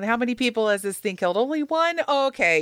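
inner voice. Retold or imitated. Voicing inner risk reasoning.

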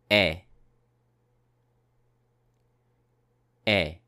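E held as a pure French vowel; model vowel sound. Shown as a demonstration. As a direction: model the vowel E for the class to repeat. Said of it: "Répétez".

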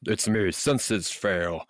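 hammed-up corporate spokesman voice; mock professional statement. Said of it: "Yes, professional".

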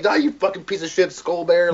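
high-pitched pretend curse at a monster; mock dying words. Podcaster imagining his last words to the killer bear, mock cursing. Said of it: "my last things would be like".

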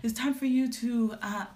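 lightly voiced dad pushing marriage. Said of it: "my dad would be like".

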